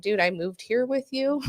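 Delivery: retold exasperated comeback, pitch climbing; incredulous retort. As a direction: protest as if it were obvious.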